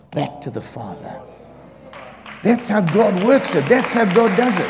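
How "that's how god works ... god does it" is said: preaching emphasis. Acted. Preaching climax.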